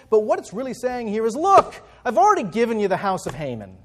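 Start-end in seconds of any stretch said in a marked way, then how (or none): 1.4-3.8 a hint of an exasperated king, louder; the king snapping at Esther, lightly voiced; annoyed, exasperated. Preacher voicing the king's annoyed reply to Esther. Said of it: "It's an annoyed, exasperated type of reply".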